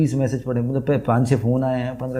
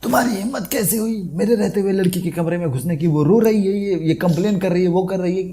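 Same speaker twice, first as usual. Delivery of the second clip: mock scolding boss; 2 semitones higher than usual. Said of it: "gate पे पहुंचा".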